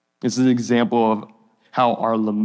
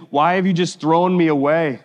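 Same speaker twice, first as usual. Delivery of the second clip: higher-pitched, reproachful question to God; pleading; 4 semitones higher, 4 dB louder than usual. Acted. Acts out psalmist pleading with God.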